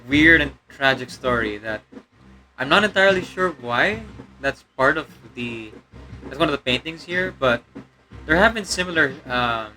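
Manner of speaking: demon voice held through the commentary; a put-on demon voice; demonic layered voice. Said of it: "the demon voice is kinda straining me".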